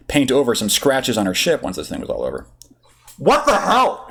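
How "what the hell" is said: high, lightly raised mock bellow. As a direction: yell it into the comm, hammed-up but light. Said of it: "she bellowed into her comm".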